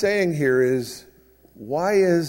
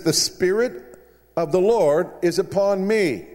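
lightly voiced solemn proclamation, starting higher; Jesus reading scripture; 3 semitones higher than usual. Jesus reads Isaiah to the synagogue, proclaiming. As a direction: proclaim it like Jesus reading aloud, easing down toward the end. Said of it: "imagine how Jesus read it that day".

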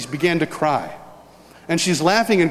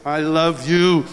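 drawn-out declaration of love; much slower than usual. Retold or imitated. Retold father before the kiss.

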